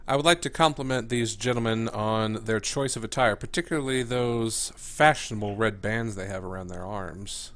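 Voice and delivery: mock flattery. Character flatters the gang members.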